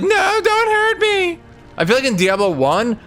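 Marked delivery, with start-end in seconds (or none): 0.0-1.4 much higher, slow pleading squeak; mock terrified demon voice; whimpering villain. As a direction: beg like a cowering weakling. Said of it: "Diablo's like".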